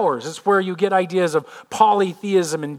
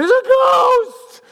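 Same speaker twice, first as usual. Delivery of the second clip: very high, loud, stretched-out shout; hammed-up scream of terror; yelling out; 7 dB louder, much slower than usual. Fishermen in the boat spotting a figure, yelling out. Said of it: "they say they yell out".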